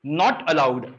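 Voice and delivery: very slow, every word stretched; slow dictation. Shown as a demonstration. Teacher dictating the mnemonic for students' notebooks, very slowly. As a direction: dictate it slowly so they can write. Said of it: "मैं slang भी बोल रहा हूँ एक बार".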